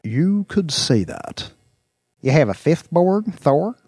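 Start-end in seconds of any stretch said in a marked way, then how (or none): 2.2-3.8 higher, louder surprised question. Acted. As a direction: sound caught off guard. William surprised asks.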